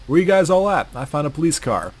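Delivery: put-on calling out in a slight Mexican accent. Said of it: "slight Mexican accent".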